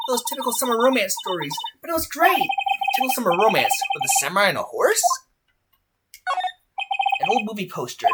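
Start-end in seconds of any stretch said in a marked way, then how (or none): 0.1-5.0 lightly voiced, higher-pitched fan; excitable fangirl. Fan remembering Samurai Summer, mildly gushing. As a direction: reminisce with girlish enthusiasm. Plays Maya recalling old show.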